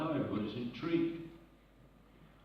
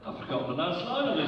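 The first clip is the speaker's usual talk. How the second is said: laughing; 5 semitones higher, 6 dB louder than usual. Real, not acted. Laughing at forgetting the line.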